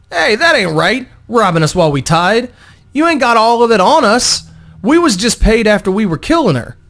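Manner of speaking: high, loud indignant protest; whiny thug. Acted. Tied-up thug protesting to Vo, high and whiny. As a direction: squeal like a cornered street thug.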